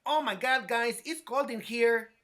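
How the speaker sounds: milk the cold like a ham actor; dramatic line read. Retold or imitated. Teacher demonstrating a bigger delivery to the student, dramatic and slow. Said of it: "can you say it a little bit more like".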